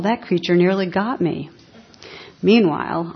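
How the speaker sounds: animated storytelling with punched key words; lively, measured reading of a funny tale; story narration. Acted. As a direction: tell it as a comic fable, acting the animals lightly. Reads a humorous story aloud.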